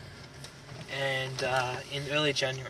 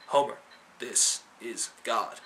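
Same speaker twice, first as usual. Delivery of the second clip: slow, solemn voice of God; lightly voiced deep calm God; God on the phone; 3 semitones lower, slower than usual. God calling Homer on the phone, slow and solemn. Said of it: "he goes".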